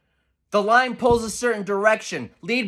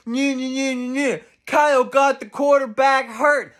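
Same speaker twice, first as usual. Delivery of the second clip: mocking whine; 3 semitones higher than usual. Mocking whining critics.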